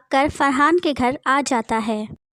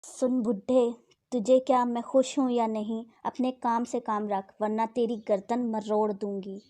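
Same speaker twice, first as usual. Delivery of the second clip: put-on contemptuous, softer threat to the old man; rude; 4 dB quieter than usual. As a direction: sneer it at him quietly. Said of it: "नहायत बदतमीजी से बोली".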